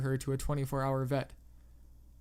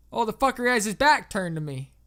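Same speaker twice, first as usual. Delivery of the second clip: raised, indignant southern voice; pissed-off southerner; 6 semitones higher, 7 dB louder than usual. A narrator's reading. Landowner describes the trespasser to the operator, pissed off. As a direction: gripe loudly in a southern accent. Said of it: "He sounded pissed as fuck".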